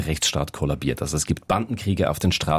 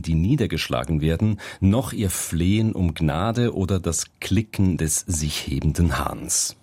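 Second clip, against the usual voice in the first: measured audiobook reading of a thriller; story narration. A narrator's reading. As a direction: read the novel's opening aloud, deliberately phrased. Reads the novel's opening aloud. (ruhig vorgelesene Romanpassage)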